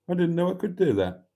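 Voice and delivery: Gloucestershire accent. Shown as a demonstration. Host obliges a viewer's request with a Gloucestershire accent. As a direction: rattle it off fast in a Gloucestershire accent. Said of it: "do your Gloucestershire accent Fred West impression".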